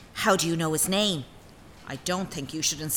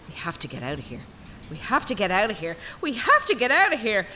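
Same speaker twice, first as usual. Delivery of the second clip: each repeat more desperate; rising panic; 2 semitones higher, faster than usual. Acted. Panic rises in captivity.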